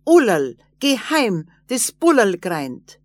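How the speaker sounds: loud call shouted back while running off; little man shouting back as he runs away. A narrator's reading. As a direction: yell it over the shoulder. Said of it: "und schrie zurück".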